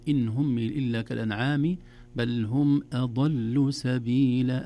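measured recitation, "سبيلا" ending on a short-held aa; model recitation, natural madd. Shown as a demonstration. Teacher modelling the last phrase, "سبيلا" with natural-length ending. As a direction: recite evenly, not overstretching the end of "سبيلا". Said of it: "أسمع الوزنية هذه".

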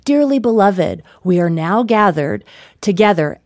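lightly voiced theology professor; a hint of formal ceremony opening; distinguished officiant. Professor starting the wedding ceremony, mildly formal. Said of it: "very distinguished".

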